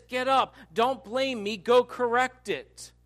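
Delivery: forceful acted reprimand from God; firm command. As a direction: issue the order emphatically. Acting God's rebuke to Joshua.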